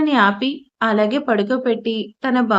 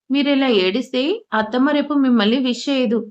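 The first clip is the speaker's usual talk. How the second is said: ordinary delivery, nothing marked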